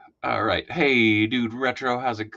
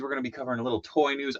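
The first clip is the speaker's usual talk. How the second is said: fast, rushed delivery; quick caffeinated patter; talking fast; 3 semitones higher, much faster than usual. Real, not acted. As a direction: rattle it off, buzzing on energy drinks. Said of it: "I feel like I'm talking really, really fast".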